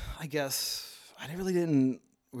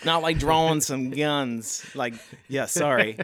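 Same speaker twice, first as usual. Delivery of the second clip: laughing apology; giggling through it; 3 semitones higher, 8 dB louder than usual. Real, not acted. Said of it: "And when he says, uh, drawing".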